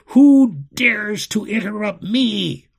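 loud, high, slow imperious demand; outraged tyrant. A narrator's reading. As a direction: thunder it slowly at the culprit. Enraged enchanter demands the culprit.

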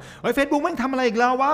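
high, loud, slow mock outburst; complaining rant. Imitating a user ranting at Facebook, high loud mock yell. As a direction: ham up a fed-up user yelling at Facebook. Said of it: "เห็นคนชอบบ่น".

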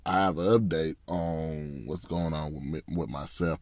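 blocked nose, congested voice. Real, not acted. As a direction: talk through a stuffy nose. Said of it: "Yes, I sound off".

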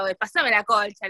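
put-on Argentine accent, slow and drawn out. Speaker talking to her cousin at home, imitated Argentine accent. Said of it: "yo le hablaba así".

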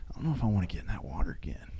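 fast, hushed inner worry; whispered doubt. Retold or imitated. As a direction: rush it out under your breath. His own doubt on the pier.

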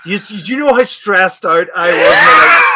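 retelling the stress, voice jumping up loud; exasperated mock shout. Real, not acted. Exasperated recounting.

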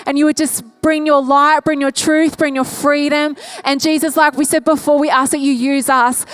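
earnest, driving prayer that settles into amens; impassioned pastor praying aloud, gradually calming; fervent prayer. Real, not acted. Leads a church prayer.

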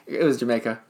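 put-on light Jamaican accent on Jamaica. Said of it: "that was my Jamaican accent".

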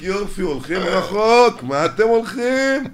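mock sermon. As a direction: preach mockingly that it all ends. Mocks parents' worries, laughing. (הטפה מלגלגת, איטית וגבוהה)

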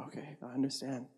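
soft, understated welcome; gentle acceptance. Retold or imitated. Jesus taking in someone mad at him, gently accepting. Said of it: "he's still welcoming you in".

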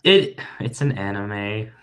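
sheepish, slow admission; ashamed. Real, not acted. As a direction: admit it like a guilty secret. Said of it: "why did you say it like that".

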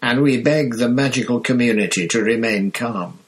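lightly voiced Minister for Magic; Fudge's voice. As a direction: read it like a politician reassuring the press.

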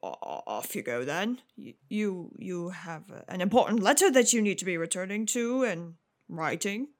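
lightly voiced, hesitant father; a hint of an awkward dad fumbling for words; flustered father. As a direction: stammer and falter, unsure what to say. Game master voices confused father.

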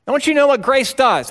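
high, loud, stress on you. Shown as a demonstration. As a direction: raise it up and hit you hard.

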